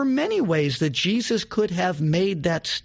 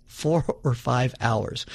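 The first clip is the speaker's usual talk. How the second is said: amused repeat; 5 semitones lower, slower than usual. Real, not acted. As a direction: repeat it laughing at how long it lasted.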